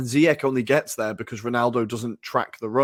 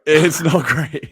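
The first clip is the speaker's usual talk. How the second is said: slow, louder, laughing put-on Scouse accent; 3 semitones higher, 7 dB louder, much slower than usual. Shown as a demonstration. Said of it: "my Scouse accent".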